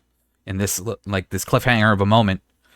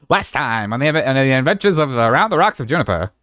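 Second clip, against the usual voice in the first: lightly hammed-up announcer recap; a touch of a big show announcer; fighting game announcer; 4 semitones higher than usual. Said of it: "I gotta do the announcer voice".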